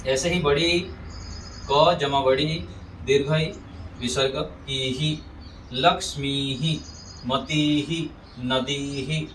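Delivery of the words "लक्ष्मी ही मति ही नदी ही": लक्ष्मी ही, मति ही, नदी ही with held "ee" then "hee"; long-i visarga. Shown as a demonstration. Teacher models long ई, लक्ष्मी ही, मति ही, नदी ही held before "hee". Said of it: "ऐसे बोलेंगे".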